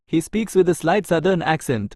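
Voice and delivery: each word spaced out slowly for learners; slow dictation. Shown as a demonstration. Teacher reading an English example sentence to Tamil learners, very slow and clear.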